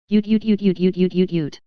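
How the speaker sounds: voiced dog barks, sharp and repeated; furious barking. A narrator's reading. The retriever barking furiously at the crowd, yapping. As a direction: bark like an angry retriever. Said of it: "barking furiously".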